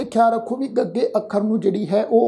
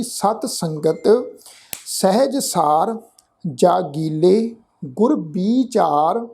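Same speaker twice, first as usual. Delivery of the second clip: slow, measured chanting of the verse; scripture recitation; much slower than usual. Shown as a demonstration. Teacher reciting the verse for the congregation, slow and measured. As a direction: lay each word out slowly and reverently.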